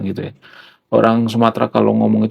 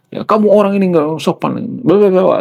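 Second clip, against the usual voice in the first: high-pitched mock telling-off; kenceng orang Timur; 8 semitones higher than usual. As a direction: scold like an eastern Indonesian, running into babble. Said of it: "kenceng, ya, suaranya". (menirukan orang Timur ngomel kenceng)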